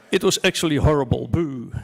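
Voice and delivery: playful imitation of two old Muppet hecklers booing; mock Muppet heckler. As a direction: heckle the show from the balcony box. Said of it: "a little bit like Stedtler and Waldorf".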